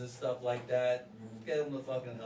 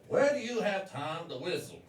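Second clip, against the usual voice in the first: dumb woman tone; 4 semitones higher, 5 dB louder than usual. Retold or imitated. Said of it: "dumb woman face, dumb woman tone".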